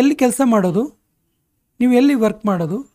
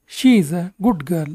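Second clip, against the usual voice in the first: slow; 2 semitones lower, much slower than usual. Shown as a demonstration. Teacher models sentence for learners.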